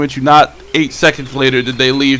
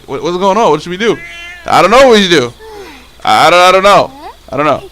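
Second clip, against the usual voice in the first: high, stammering mock panic; freaking out; 4 semitones higher than usual. Kids asking each other what to do, panicking. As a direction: imitate flustered kids with raised voices. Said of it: "So I started freaking out".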